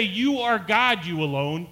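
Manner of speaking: mildly emphatic "You are God"; contrasting quote. Shown as a demonstration. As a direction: set it against the true words. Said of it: "They didn't say".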